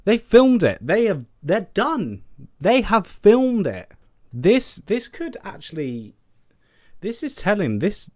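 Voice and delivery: high, loud and thrilled, pointing at the photos; can't believe they actually filmed it, voice way up; excited. Real, not acted. Showing viewers the set photos, excited high exclaiming.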